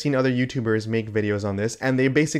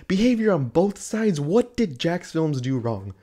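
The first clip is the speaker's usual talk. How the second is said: incredulous echo; 5 semitones higher than usual. Real, not acted. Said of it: "incredulous echo of YouTube".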